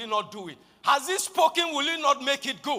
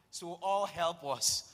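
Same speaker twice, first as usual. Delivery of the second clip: real chuckle breaking into the words; slow, softer line dissolving into laughter; laughing while telling; 5 semitones lower, 6 dB quieter than usual. Real, not acted. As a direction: let a laugh cut in before the last word. Laughing over the advert story.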